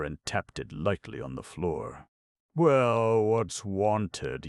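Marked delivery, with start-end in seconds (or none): 2.5-4.5 yawning dwarf. A narrator's reading. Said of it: "yawned himself".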